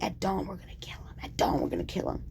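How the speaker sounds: fast conspiratorial whisper. Retold or imitated. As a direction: hiss it like plotters in the dark.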